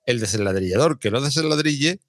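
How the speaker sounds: careful tongue twister; measured, deliberate recitation. Real, not acted. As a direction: pick through each word without tripping.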